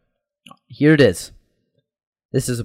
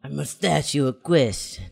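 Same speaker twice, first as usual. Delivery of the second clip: put-on Italian accent. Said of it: "You gotta talk like that".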